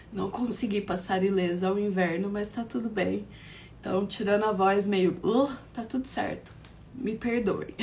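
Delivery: hoarse sore-throat voice; raspy voice from an inflamed throat; swollen tonsils. Real, not acted. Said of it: "tô com essa voz que tá um misto de Débora Seco, sexy e gralha".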